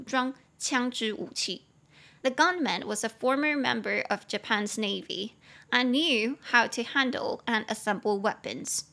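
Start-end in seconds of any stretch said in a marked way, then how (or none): 2.2-8.8 slow, careful English model sentence; slow model reading. Shown as a demonstration. Teacher reading the model sentence aloud to students, slow and clear. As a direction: read it slowly and clearly for learners. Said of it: "你就可以跟他说我们的第四句".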